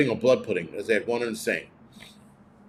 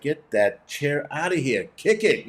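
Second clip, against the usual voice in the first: Jesus; 4 semitones higher, slower than usual. Pretend. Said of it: "and then Jesus is like".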